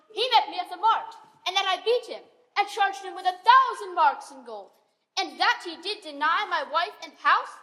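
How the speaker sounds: heated, stagey Shakespearean complaint; mildly angry master, theatrically indignant; indignant accusation. Acted. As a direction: accuse your servant, voice rising in volume. Acted Shakespeare quarrel, accusing his servant.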